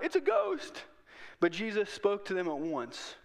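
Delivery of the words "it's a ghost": high, loud panicked shout; terrified cry. A narrator's reading. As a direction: scream it out in terror. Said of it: "they cried out".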